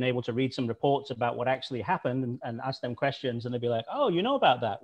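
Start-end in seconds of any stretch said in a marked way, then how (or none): 3.9-4.8 lightly acted surprise, pitched higher; mock surprise. Retelling Russians' reaction to his questions, mildly surprised. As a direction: play an intrigued "oh", voice swooping up.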